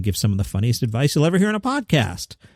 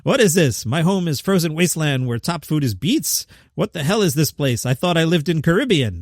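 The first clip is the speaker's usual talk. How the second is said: a deliberately bad, slightly raised Russian accent; hack Russian accent; 2 semitones higher than usual. Host mocking Russians with a bad Russian accent. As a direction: ham up a cheap Russian accent, barely committed. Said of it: "I'll do my own hack Russian accent".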